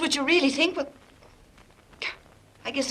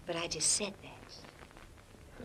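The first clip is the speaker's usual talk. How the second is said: whispered, soft and slow; intimate whisper; 9 semitones lower, 20 dB quieter, much slower than usual. Acted. Drawing close to Harry, she whispers it intimately. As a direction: breathe it close to his ear.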